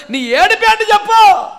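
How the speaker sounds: urgent preacher's cry; insistent demand. Acted. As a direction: build to a loud, pressing question. Question repeated as a climax.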